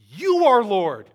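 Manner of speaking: loud, high burst on YOU falling away; emphatic proclamation. Real, not acted. Preacher answering the disciples' doubt with a declaration, emphatic proclamation. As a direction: proclaim it at full voice.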